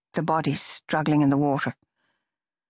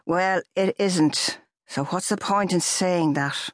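firm; 3 semitones higher, slower than usual. Acted. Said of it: "her boyfriend said firmly".

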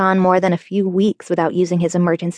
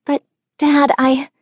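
protesting; 7 semitones higher than usual. A narrator's reading. Teen protesting, cut off.

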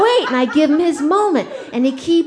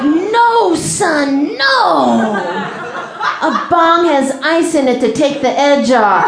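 loud, laughing protest; alarmed mom; 5 dB louder, slower than usual. Retold or imitated. Mom hurriedly correcting her son at the doctor's, loud and laughing. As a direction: cut him off loudly, half laughing.

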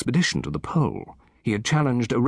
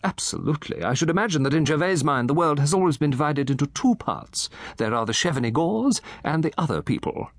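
lightly raised, eager gossip voice; a chatty old gentleman relishing his tale; Satterthwaite; 6 semitones higher than usual. Acted.

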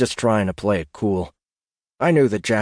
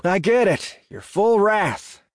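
high, weary cut-in; impatient, pitched-up retort; exasperated interruption; 11 semitones higher, slower than usual. A narrator's reading. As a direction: cut in, fed up with the threat. Cuts off the jackal's threat.

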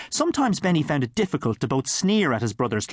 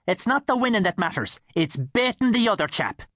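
lightly voiced, higher priestly quip; a hint of the priest; 8 semitones higher than usual. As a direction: toss it off as the jovial priest. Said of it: "As Father Barty often said".

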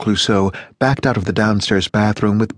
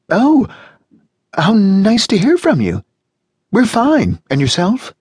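much higher, louder American woman's voice; gushing neighbour on the phone, much higher; Janice, cheerful American; 12 semitones higher, 4 dB louder, slower than usual. A narrator's reading. Janice voiced in read story.

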